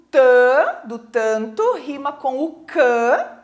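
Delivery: "tã" and "cã" drawn out long and held; stressed syllables isolated. Shown as a demonstration. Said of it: "destacou ali de outra cor a sílaba tônica".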